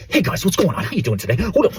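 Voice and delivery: high, mocking vlogger voice; fake YouTuber greeting. Mocking fake YouTubers greeting their viewers, exaggerated high voice. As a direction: put on a phony, squeaky-high host hello. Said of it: "Like, who talks like that?".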